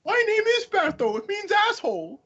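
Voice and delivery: high squeaky mock voice breaking into laughter. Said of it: "mock voicing character".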